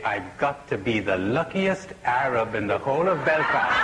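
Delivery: saying the punchline through a laugh. Real, not acted. Teller delivering the Belfast punchline to the audience while laughing. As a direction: laugh while you get the line out.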